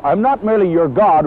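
"God" given the emphasis at the end; stress on God. Shown as a demonstration. Preacher voicing the Lord to Adam and Eve, stress on God. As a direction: lean on the final word "God". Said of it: "with emphasis on the word God".

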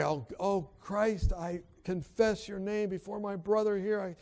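heartfelt spoken prayer, lifting in pitch; earnest prayer. Retold or imitated. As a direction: pray aloud with building intensity. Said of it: "So I pray".

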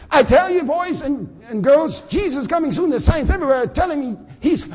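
high, loud fatherly sermon; father preaching. Pretend. Father rising from the grave preaching to his children. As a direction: preach it to the boys and girls. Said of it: "Why am I so dusty?".

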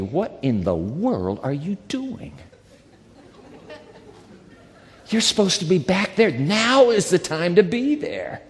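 urgent voice of God. Retold or imitated. God's voice rebukes him.

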